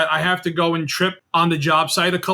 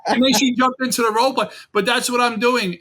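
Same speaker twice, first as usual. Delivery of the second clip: talking through a real laugh, higher and quick; 5 semitones higher than usual. Real, not acted. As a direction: still laughing while he speaks. Laughing after funny phone story.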